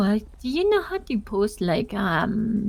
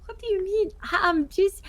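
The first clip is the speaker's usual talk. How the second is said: defensive; 11 semitones higher than usual. Real, not acted. Defensive protest after accusation.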